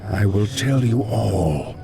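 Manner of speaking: half-whispered spirit speaking in the mind; telepathic voice. Acted. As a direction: ghostly voice inside his head. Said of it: "Only you can hear me".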